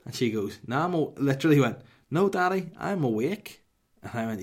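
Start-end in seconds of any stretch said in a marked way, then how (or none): 0.7-1.1 put-on toddler reply. Voices toddler answering. 2.1-3.6 high, loud little-child imitation; mock small-kid voice; toddler reply.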